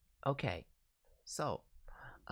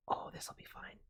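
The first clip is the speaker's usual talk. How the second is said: soft unvoiced whisper; 7 dB quieter than usual. Real, not acted. Streamer whispers about a fun suggestion. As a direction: whisper it with glee.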